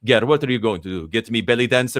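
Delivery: a son's loud Egyptian-accent impression of his dad. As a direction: imitate your Egyptian father teasing in his thick accent. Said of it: "He's a very thick accent".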